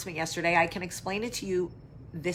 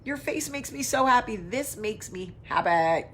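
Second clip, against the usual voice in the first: gushing back; 7 semitones higher, 5 dB louder than usual. Retold or imitated. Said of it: "And I was like".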